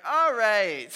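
acted-out loud concession; calling off prank. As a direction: burst out to call the joke off. Acts out himself ending the prank.

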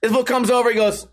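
usual speaking voice

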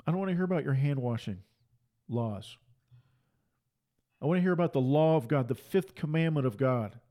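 ordinary talk, nothing marked

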